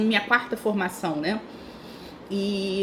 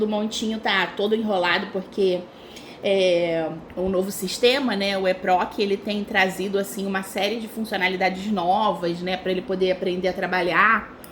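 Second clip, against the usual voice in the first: chewing while talking; talking through a mouthful of greens; mouth full. Real, not acted. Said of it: "Tô mastigando verdura".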